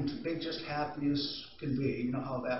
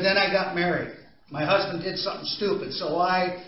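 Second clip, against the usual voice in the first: louder, heated retelling of a fight; retold yelling; 3 semitones higher, 5 dB louder than usual. Italian wife telling the audience about her fight, mildly heated. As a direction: relive the anger a little. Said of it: "You yelled and screamed at it".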